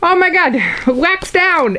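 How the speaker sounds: screaming. Retold or imitated. Retelling how she screamed at her sister, high panicked yell. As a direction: shriek it as the wax drops. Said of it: "And I scream".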